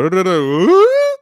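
slow sing-song comic patter rising to an ooh; mock comic cadence. Mocking bad comedians doing a stand-up cadence. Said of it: "they do the cadence and they go".

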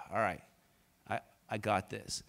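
soft, low, settled self-talk; hushed and steady, like calming yourself in cold water; calm inner resolve. Retold or imitated. Pastor voicing the moment the cold eases, quietly.

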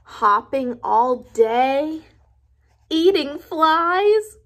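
slow, rising dread; picture the horror slowly; worried Gerald. Acted. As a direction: elephant dreading life as a frog. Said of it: "Gerald's worried".

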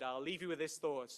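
usual speaking voice

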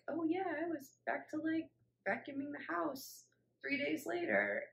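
quoting cheerful people. Retold or imitated. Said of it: "a lot of people were like".

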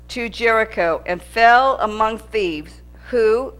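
slow, measured Bible reading; scripture reading. Acted. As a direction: read the verses slowly and solemnly. Reads scripture aloud.

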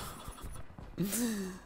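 soft breathy laugh of defeat; a real defeated chuckle; rueful laugh. Real, not acted. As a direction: laugh it off, airy and falling. Game going badly.

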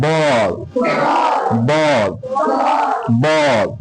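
বল with a rounded "aw" vowel; A sounded as অ. Shown as a demonstration. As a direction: model বল as a drill word, the vowel held. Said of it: "বল উচ্চারণ করতে এর উচ্চারণটা".

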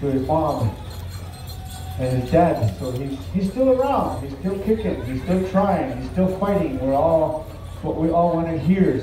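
measured arena announcer address; powwow emcee. Real, not acted. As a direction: speak to the whole arena, unhurried. Emcee speaks over the arena PA.

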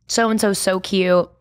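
talking around an ice cube; words round a mouthful of ice. Real, not acted. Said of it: "I have an ice cube in my mouth".

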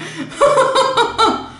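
bright high burst of laughter. Real, not acted. Reacts to the scene.

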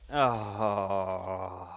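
drawn-out, sinking groan of dismay; long groan. Real, not acted. Gamer after a creeper disaster, groaning long and deflated.

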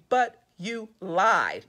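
"lied" drawn out slowly for weight; stress on LIED. A narrator's reading. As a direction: land hard on "lied". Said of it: "lied is in capital letters".

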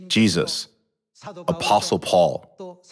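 ordinary delivery

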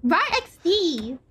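put-on very slow, drawn-out cutesy scene kid growl; mock scene kid. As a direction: stretch it out like a cringey scene kid. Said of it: "That's what he is".

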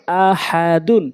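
syllables stretched for learners; slow demo. Shown as a demonstration. Teacher repeating for learners, slowly. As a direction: take the word slowly, part by part. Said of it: "প্রথমে আমি slow বলছি".

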